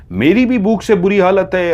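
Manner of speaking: high, insistent complaint; pleading protest. Acted. Jinn argues they are both starving, pleading protest. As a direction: plead your case, pitched well up.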